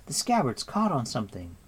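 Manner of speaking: put-on breathless, struggling girl; out of breath, stuck; panting. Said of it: "Eilonwy panted".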